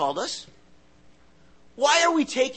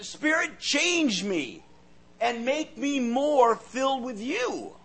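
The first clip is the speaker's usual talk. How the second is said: sincere simple prayer; slower than usual. Shown as a demonstration. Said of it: "What you need to pray is".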